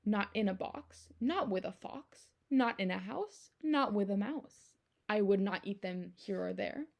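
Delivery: lively storybook read-aloud, bouncing rhythm; reading to children. Acted. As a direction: read it to the kids with playful emphasis. Reads picture book aloud.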